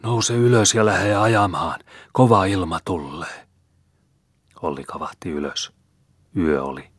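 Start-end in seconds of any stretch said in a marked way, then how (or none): 0.0-3.5 higher, eerie voice of the dead calling out; ghostly urgent call, raised pitch; dead man bellowing. A narrator's reading. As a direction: rouse the sleeping driver from beyond the grave. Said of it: "karjaisemaan kyytimiehelleen".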